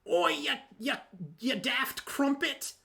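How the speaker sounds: high, hammed-up British parody; mock-British insult, last words drawn out; Aventhy, pseudo-British. Player parodies own character trading insults, high pseudo-British voice. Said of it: "British thing that you have going for Aventhy".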